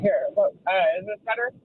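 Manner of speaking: windy car phone line; wind tunnel. Real, not acted. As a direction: still windy on the call. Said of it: "Not really".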